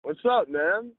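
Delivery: faint, far-off phone voice; barely audible. Real, not acted. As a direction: caller heard faintly over phone. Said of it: "You sound very faint".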